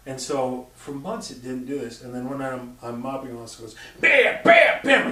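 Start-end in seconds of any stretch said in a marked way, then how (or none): 4.0-5.1 loud high mock bangs, higher and louder; loud banging noise. Retelling a haunted toy to a friend, loud mock banging. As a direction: bang it out like a toy slamming three times. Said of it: "like, three times really hard".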